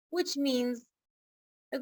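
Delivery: normal talking voice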